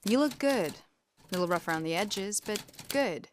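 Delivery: put-on light American accent, soft ending; a hint of a film American accent; relaxed American accent line reading. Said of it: "in an American accent".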